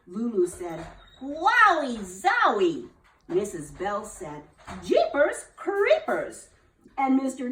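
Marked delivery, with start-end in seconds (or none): 1.2-2.9 high, slow, drawn-out wow; amazed gasp. Acted. Lulu gasps in amazement at the nurse. 4.8-6.5 very high, slow shriek; shocked gasp. Acted. Missus Bell shrieks in shock at the nurse. Teacher gasps.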